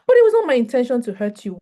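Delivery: loud, fast defensive protest; mock defensive excuse. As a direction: blurt the excuse out to defend yourself. Mocking a defensive reply.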